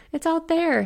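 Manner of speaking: very high, helpless wail. A narrator's reading. Inn owner says extinguisher is outside, wailing. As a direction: wail it in panicked despair. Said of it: "he wailed".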